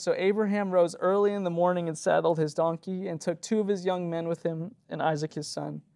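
scripture reading. Acted. Pastor reading scripture to the congregation, proclaiming. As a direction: read the passage out with weight.

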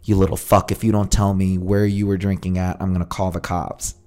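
understated mock-stern mother, no accent put on; imitated stern mom. Son doing his mom's lines in his bit, lightly imitated stern mother. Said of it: "when my mom says her lines".

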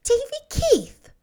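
sharp outrage defending Marilla; indignant. A narrator's reading. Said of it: "said Anne indignantly".

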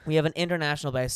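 talking around a wad of gum; chewing gum. Real, not acted. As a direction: speak with gum in your mouth. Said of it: "I'm chewing gum and I need to swallow it".

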